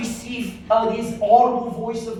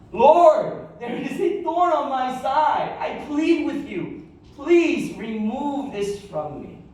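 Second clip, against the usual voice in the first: crying out in prayer; 4 semitones higher, slower than usual. Acted. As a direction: cry out to God at full stretch. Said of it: "He says".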